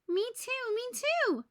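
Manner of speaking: high, eager repeated plea; eager cry. A narrator's reading. Moose and Rabbit asking for photos, eager. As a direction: beg to be next, bouncing. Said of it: "cried Moose and Rabbit".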